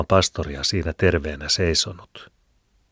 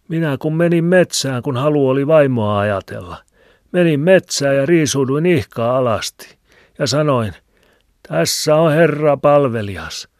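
put-on higher, louder old Filemoni with a cackle; old man's voice; 8 semitones higher, 7 dB louder than usual. A narrator's reading. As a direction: chuckle and ramble like an old hermit. Filemoni tells his tale. (vanhan miehen hekottava ääni)

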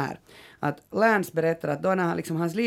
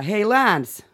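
mock calling out, raised pitch; retold call; 4 semitones higher, 4 dB louder than usual. Man outside a bar hails Lance, lightly imitated shout. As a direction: imitate a man hailing someone across the street. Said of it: "ropade han sådär".

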